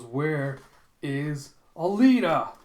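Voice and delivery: loud, drawn-out question swelling on the name; roared demand. Retold or imitated. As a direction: demand it word by word, building to a shout. Villain's demand, retold.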